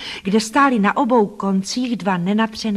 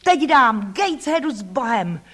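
raised, higher-pitched exclamation; crying out; 5 semitones higher than usual. Acted. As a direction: call out a farewell, pitched up. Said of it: "vykřikla jsem".

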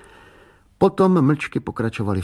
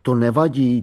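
mock imitation. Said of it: "To je, jako by mi rovnou řekla".

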